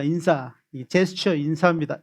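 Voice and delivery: ordinary delivery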